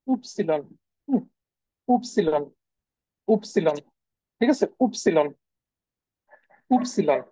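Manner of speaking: উপসিলন said slowly as oop-see-lon, each syllable clear; German letter Y. Shown as a demonstration. Teacher drills the German Y name for students, clear and repeated. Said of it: "মনে রাখবেন এটাকে".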